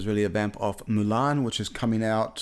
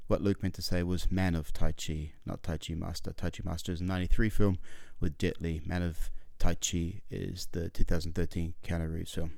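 editor's note; 4 semitones lower than usual. Acted. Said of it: "Quick editor's note".

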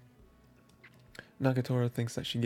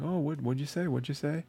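teasing; 4 semitones higher than usual. Retold or imitated. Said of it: "teasing him".

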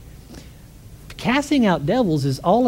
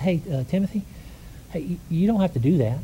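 gentle tone; 5 dB quieter than usual. Retold or imitated. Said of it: "just in tone of voice".

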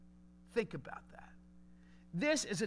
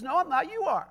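put-on childish tit for tat; 4 semitones higher than usual. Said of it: "it's like this titter-tat".

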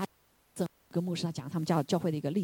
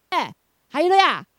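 a high, loud burst of praise; joyful preacher's shout; shouted hallelujah; 8 semitones higher, 9 dB louder than usual. Real, not acted. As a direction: cry it out to the congregation.

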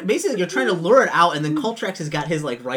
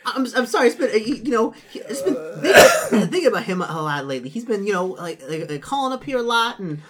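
flustered NPC voice; 6 semitones higher, 5 dB louder than usual. Acted. GM plays NPC making excuses.

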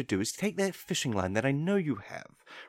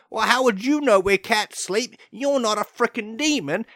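higher, louder, huffy comeback; exasperated retort; 7 semitones higher, 5 dB louder than usual. Acted. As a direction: snap back in offended disbelief. Demon retorting to owners.

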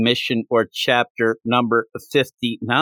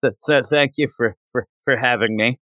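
1 nervous stutter; faster than usual. Retold or imitated. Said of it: "She's stuttering a bit".

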